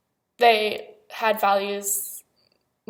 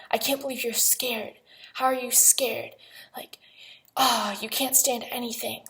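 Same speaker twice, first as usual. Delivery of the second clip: retold yelling; 2 semitones higher than usual. Daughter retelling dad's tirade at the bathroom door, mock yelling. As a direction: imitate an angry rant without raising the volume. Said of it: "he was just yelling at me".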